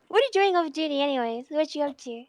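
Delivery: loud. Real, not acted. Back to normal, loud.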